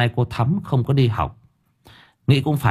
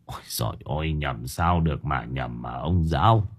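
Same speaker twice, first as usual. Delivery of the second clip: whimpering lament; 8 semitones lower, 7 dB quieter than usual. A narrator's reading. Old Thủy whimpering to the teacher that it's true. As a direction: lower and much softer, on the verge of tears. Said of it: "Ông Thủy mếu máo".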